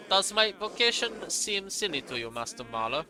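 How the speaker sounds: put-on monk's German-accented question. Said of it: "I gave him a German accent".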